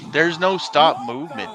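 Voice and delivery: hyped-up yell at a wild move; excited shout. Real, not acted. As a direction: blurt it out loud and amazed. Excited reaction to wrestling clip.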